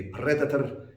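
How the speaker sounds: "predator" with a rolled R; rolled-R accent. Shown as a demonstration. Teacher showing an accepted variant, rolled-R accent. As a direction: roll the R in "predator". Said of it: "it can be".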